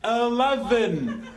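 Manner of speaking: very slow, deliberate enunciation; slowly drawn out. Acted. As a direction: stretch each syllable for a machine. Repeating slowly for the lift.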